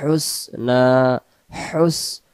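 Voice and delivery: হুস drawn one alif long through the nose; nasal hold. Shown as a demonstration. Teacher showing the nasal ghunna on হুসনা, drawn out. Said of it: "নাকে আমরা এক আলিফ সম পরিমাণ টেনে পড়ব".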